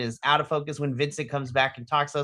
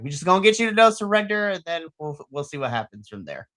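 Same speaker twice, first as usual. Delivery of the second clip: mock hype, fading out. Co-host mocking the build-up, hype fading to a shrug. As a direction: pump it up, then let it sag.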